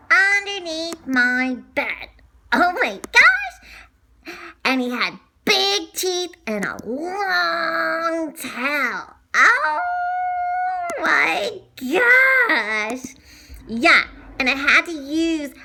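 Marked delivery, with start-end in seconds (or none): 2.5-4.4 mock amazement. Gasping at alligator description. 9.3-13.1 gasped amazement. Acted. Reacting to alligator teeth.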